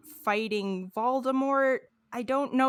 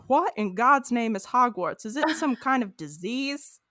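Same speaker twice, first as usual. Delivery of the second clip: put-on Louisiana accent; 3 semitones higher, 4 dB louder than usual. Fan reading Hank's reaction to Hogwarts, Louisiana accent. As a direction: do a puzzled Louisiana Hank. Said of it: "a Louisiana accent".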